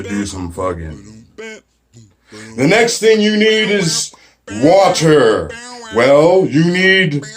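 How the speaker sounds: slow, solemn hermit intoning the elements; mock wise sage. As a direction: lay out the wisdom slowly like a hammed-up guru. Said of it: "And he says".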